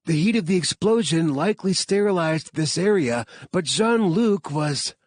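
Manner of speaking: a high, determined scientist voice; determined heroine. Acted. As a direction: brush them off and go. Claire insists going alone.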